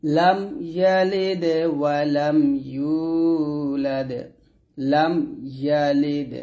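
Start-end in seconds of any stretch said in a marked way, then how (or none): 0.1-4.1 slow melodic tilawat of কুল হুয়াল্লাহু; teacher reciting for students to repeat; Quran recitation. Shown as a demonstration. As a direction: recite it slowly with a chanting tune. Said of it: "একসাথে".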